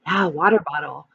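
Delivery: normal talking voice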